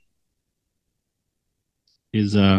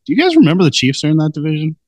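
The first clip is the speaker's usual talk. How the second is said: quick, higher-pitched disbelieving question; mock-incredulous reminder, a bit rushed; incredulous self-quote; 4 semitones higher, faster than usual. Podcast host recalling the reaction to preseason predictions, incredulous.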